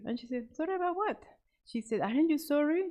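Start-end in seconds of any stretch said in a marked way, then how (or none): 0.5-1.2 defiant. A narrator's reading. Defiant girl answers mother. 2.0-2.8 scolding. A narrator's reading. Mother lecturing daughter.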